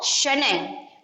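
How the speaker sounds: शनैः drawn out slowly with a trailing h; very slow careful शनैः; slow demonstration. Shown as a demonstration. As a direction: stretch out शनैः like a teacher. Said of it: "शनैः का मतलब होता है".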